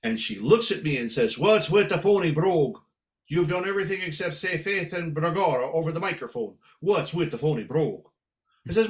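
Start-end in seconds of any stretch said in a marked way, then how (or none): 1.4-8.1 lightly voiced Irish lady; little Irish lady. Little lady confronting singer on break, lightly voiced Irish scold. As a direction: challenge him in a light Irish brogue. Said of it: "there was a little lady".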